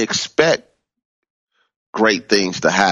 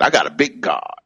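lightly imitated mentor, pitched up; Reverend Coleman; 4 semitones higher than usual. Preacher showing how a mentor used to say it, higher. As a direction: lift the pitch into her saying. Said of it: "that's how Reverend Coleman used to say it".

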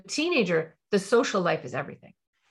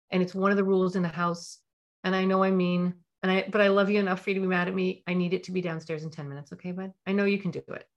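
calm technique. Shown as a demonstration. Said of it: "apply the calm technique".

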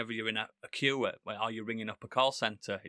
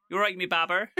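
put-on Bristol accent; 5 semitones higher than usual. Imitating how they all talk on Skins, mock Bristol accent. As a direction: put on a West Country Bristol twang. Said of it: "sounds like she's on Skins".

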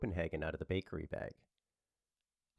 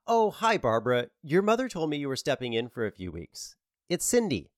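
Cindy voice; 6 semitones higher, 6 dB louder than usual. Acted.

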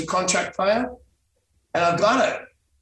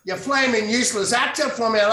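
lightly hammed-up Aussie scolding, pitched high; mock Australian insult; Alf Stewart; 6 semitones higher than usual. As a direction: playfully imitate a soap grump's telling-off. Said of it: "did Alf Stewart".

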